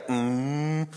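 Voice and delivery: long mock-angry hum; drawn-out grunt of pretend anger. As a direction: growl "mm" like someone fed up. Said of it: "we get angry Jesus again".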